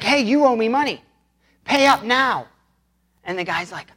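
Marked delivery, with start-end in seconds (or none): 0.0-2.5 raised-pitch, pushy debt collector; mock demanding. Forgiven servant confronting the man who owes him, mock demanding. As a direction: demand payment in a higher, insistent voice.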